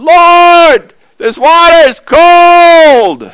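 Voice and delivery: high, loud, stretched mock cry; imitating Garth's yelp. Garth in the cold Trinidad shower, a high mock yell. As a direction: wail it like cold water just hit you. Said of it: "he's going".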